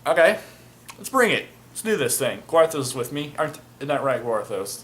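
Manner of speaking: daring the court to bring it on; cocky retold challenge. To the agent at his trial, cocky and eager. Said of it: "And I'm just like".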